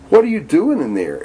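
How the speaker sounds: mother calling. Acted. Mother calls from outside.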